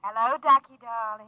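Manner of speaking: low, hushed come-hither coo; sultry flirt. Acted. Lorene cooing at Frank over the logic, sultry. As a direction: purr his pet name to lure him in.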